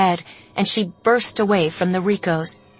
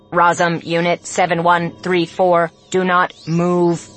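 loudspeaker command; 4 dB louder than usual. Acted.

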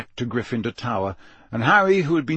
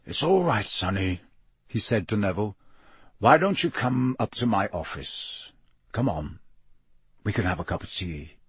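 lower gentler growl; 2 semitones lower than usual. Acted. Moody gently coaxes frightened Neville to his office. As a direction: coax the scared boy kindly. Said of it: "a much lower and gentler growl".

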